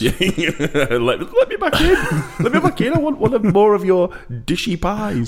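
very high, laughing mock plea for forgiveness; high-pitched excitable plea. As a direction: beg excitedly in a squeaky-high voice, giggling. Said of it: "high-pitched, excitable plea".

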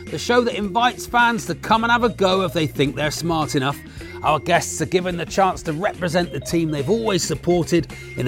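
punchy, emphatic announcer read; show host intro. Real, not acted. Host welcomes listeners to the battle of wits, hyped intro. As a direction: sell the quiz with big stressed key words.

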